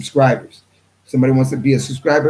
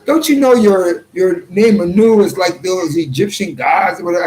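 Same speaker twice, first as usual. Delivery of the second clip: questioning the name Anu in a raised voice; imitating the questioner; 5 semitones higher than usual. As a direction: play him pushing back, pitched up. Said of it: "a Messianic Hebrew said".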